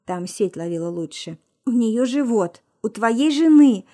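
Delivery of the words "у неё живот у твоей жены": shaky whisper into the phone. A narrator's reading. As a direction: tremble it out under your breath. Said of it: "дрожащим голосом прошептала в трубку".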